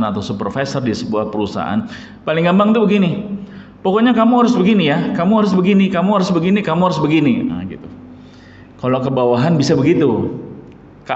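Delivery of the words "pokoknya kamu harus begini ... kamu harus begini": bossy order. Retold or imitated. Boss ordering subordinate bossily.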